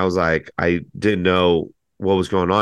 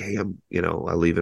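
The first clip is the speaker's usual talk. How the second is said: put-on whisper, quieter; 6 dB quieter than usual. Retelling saying goodbye while someone plays D and D: retelling a whisper. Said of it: "I kinda whispered to Nolan".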